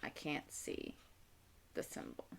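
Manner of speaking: very soft, half-voiced aside; barely audible note to self; talking to herself. Real, not acted. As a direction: murmur it under your breath. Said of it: "I'm talking to myself".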